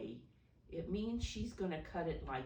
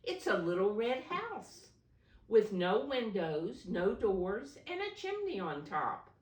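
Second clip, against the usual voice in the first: high, loud, delighted telling; excited child; 6 semitones higher, 7 dB louder than usual. Acted. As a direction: bubble over with the discovery. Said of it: "he cried".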